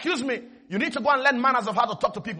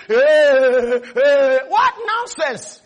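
scoffing dismissal; 7 dB louder, much slower than usual. Pretend. Acted scoffing reply to caller.

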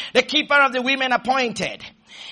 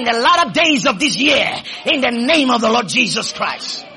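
forceful pulpit blessing; prophetic declaration; 3 semitones higher, 4 dB louder than usual. Real, not acted. Preacher declaring angels over the congregation's lives, forceful. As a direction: declare it firmly over the listeners.

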